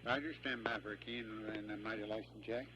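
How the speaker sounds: tinny radio voice check; radio chatter. Real, not acted. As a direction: call through the comm loop. Ground station radio network check.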